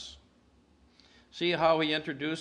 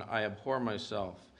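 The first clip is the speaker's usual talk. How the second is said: low, softened lament; quoted groan; 4 semitones lower, 6 dB quieter than usual. Retold or imitated. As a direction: quote it as an understated groan of self-disgust. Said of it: "yet instead there is this groan".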